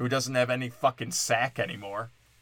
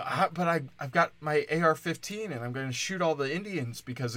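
higher, hammed-up pleading customer; mock pleading; 4 semitones higher than usual. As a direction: beg sarcastically for the whipped cream. Mock plea of gun-owning buyer.

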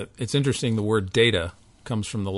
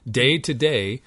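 scripture recitation; 4 dB louder than usual. Real, not acted. Quoting Psalm nineteen aloud.

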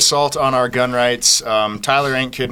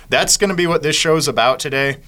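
talking with a dip in; words round a lip of tobacco; lip full of dip. Real, not acted. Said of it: "I got a dip in".

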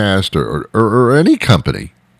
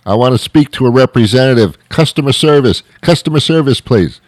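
yelling; 6 semitones higher than usual. Retold or imitated. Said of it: "yelling at a robot".

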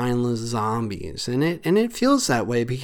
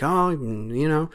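lightly voiced grumbling old-timer, pitch up at the start; mock a cranky elder scolding kids; a hint of a grumpy old man nagging about phones; 2 semitones higher than usual. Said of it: "don't know why I said it in that accent or that, that voice".

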